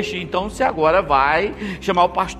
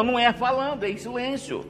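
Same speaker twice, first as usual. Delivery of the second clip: softly demonstrating silence; 4 semitones higher, 6 dB quieter than usual. Shown as a demonstration. Illustrating silence.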